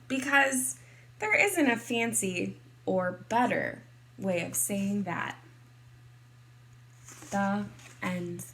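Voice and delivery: lively, expressive picture-book narration; story reading to children. A narrator's reading. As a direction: read it to kindergartners, playing up key words.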